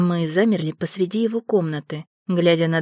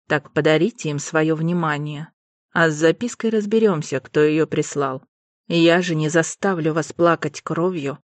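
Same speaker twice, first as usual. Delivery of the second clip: softened stern lord. Acted. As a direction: dismiss them kindly but firmly. Alastair softer, still low.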